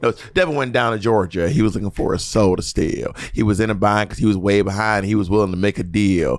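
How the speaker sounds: Southern country recitation; country-accented verse in steady rhythm. Acted. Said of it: "You are so country".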